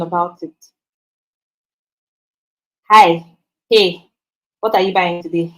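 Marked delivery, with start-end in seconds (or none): 2.9-5.5 casual greeting. Shown as a demonstration. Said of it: "That's wrong".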